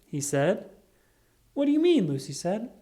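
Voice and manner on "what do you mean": high, louder disbelieving snap; indignant surprise. A narrator's reading. Lucy protests to Charlie Brown, high and louder. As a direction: protest it can't be.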